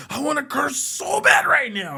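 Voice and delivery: put-on high voice of a pissed-off boy begging; whiny kid. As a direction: whine like a kid bursting to swear. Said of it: "he's like".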